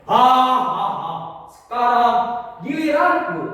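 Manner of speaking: loud, high, acted triumphant laugh; tawa keras. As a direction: laugh big, then crow it loudly. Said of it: "ia tertawa keras". (tertawa keras penuh kemenangan)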